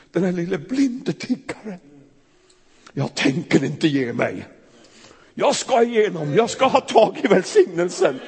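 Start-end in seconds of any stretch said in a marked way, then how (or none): 2.9-8.2 high, loud, insistent shout; shouting louder. Acted. The beggar shouting past those hushing him, high and loud. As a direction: refuse to be silenced, louder each line. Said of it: "Han ropar ännu mer".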